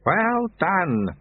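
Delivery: glowing approval; beaming. A narrator's reading. Sweeper praises the novice's discoveries, beaming.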